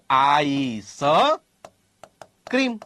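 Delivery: આઈસ slowly drawn with separate S, pause, ક્રીમ; split as "ice cream". Shown as a demonstration. Teacher showing how this one is said, drawn-out આઈસ / ક્રીમ. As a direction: stretch આઈસ, pause before a short ક્રીમ. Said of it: "તો આમાં શું બોલાય?".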